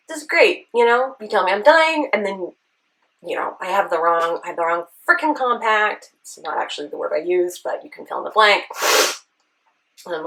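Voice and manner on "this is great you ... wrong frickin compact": raised, loud exasperated rant at the universe; half-shouting sarcastic venting, pitched up; retold yelling. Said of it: "I just start yelling at the universe".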